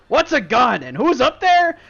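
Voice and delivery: high, loud baffled questions; confused giant. Acted. Dim giant baffled, asking loud and high. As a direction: ask like you've never heard the word. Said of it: "He goes".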